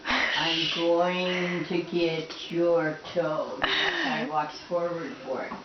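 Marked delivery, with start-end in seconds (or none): 0.1-3.6 low slow teasing growl; playful monster growl. Pretend. Playing with pet bird.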